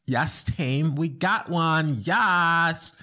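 high, loud, slow triumphant cheer; hammed-up gleeful teller celebrating; gloating cheer. Host mimics bank teller gloating over the arrest, high loud cheer. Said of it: "her tonality".

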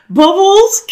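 panicked high-pitched guess; high squeaky guess. Retold or imitated. Prankster guessing the character: high squeak. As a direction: squeak the name high and unsure.

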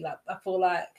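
talking through a yawn; words stretched by a yawn. Real, not acted. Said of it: "Are you yawning".

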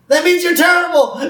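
high-pitched mock villain jab; Mister Burns. Boss explaining the insult to blank worker, high hammed-up villain.

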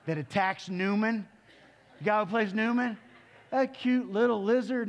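animated storytelling, climbing in pitch; building excitement. Retold or imitated. Preacher builds up the Jurassic Park lizard.

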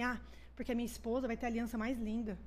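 lightly imitating boys talking softly, a little low; low-voiced chat. Boys chatting privately in a tent, mildly hushed. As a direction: retell it softly, like overheard tent talk. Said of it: "E eles conversando sobre essas coisas, baixo".

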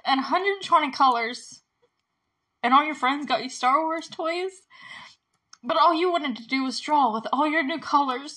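choked up, halting between phrases; trying not to cry. Real, not acted. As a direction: quote a loving mother while holding back real tears. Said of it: "I'm trying not to cry".

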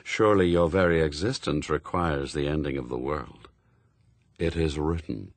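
deep and final, like the grave speaking; grim reaper voice. A narrator's reading. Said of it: "he said".

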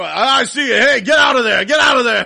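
excited playful shout, high and loud; hide-and-seek yell, breaking into laughter; George. Retold or imitated. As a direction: shout as if catching someone hiding. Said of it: "and George would go".

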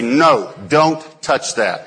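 slow, firm don't touch that; stern warning. Retold or imitated. Father sternly warning James, slow firm no. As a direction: lay down the law slowly. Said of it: "Here's what he'd do".

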